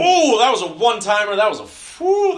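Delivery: high, loud burst of excitement; excited. Real, not acted. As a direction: gasp at the near miss. Live near-goal reaction.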